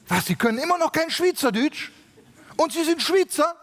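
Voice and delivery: mock Swiss official. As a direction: play a scandalised border official. Swiss official questioning the preacher.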